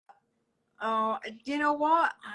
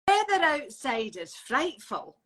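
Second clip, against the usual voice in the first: Scottish accent. Shown as a demonstration. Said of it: "in a Scottish accent".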